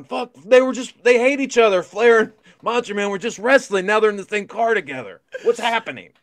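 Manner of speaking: high, loud panicked babble, slowing at the start; shrill retold freak-out in the car. Two teens tailing wrestlers panic in the car, high and loud. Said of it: "we're freaking out in the car going".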